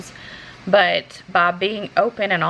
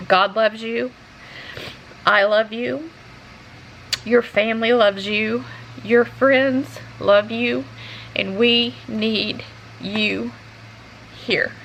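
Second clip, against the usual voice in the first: tender reassurance; 3 semitones higher, slower than usual. Real, not acted. Closing affirmation to viewers.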